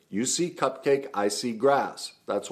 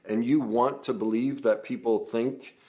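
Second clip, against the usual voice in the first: conversational demo; 2 semitones higher than usual. Shown as a demonstration. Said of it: "acted as though I was having a conversation".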